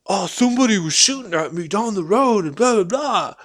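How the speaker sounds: mock voice of the crackhead at the door; mimicking the weirdo. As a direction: play the lying stranger, pushy. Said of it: "He's like".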